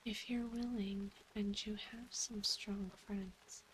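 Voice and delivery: reading quest text in a whisper. Acted. Reads quest text aloud in whisper.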